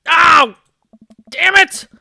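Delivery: loud, high yelp then curse; sharp shout of pain from a cut thumb; sudden hurt cry and swear. Acted. Cuts thumb with knife.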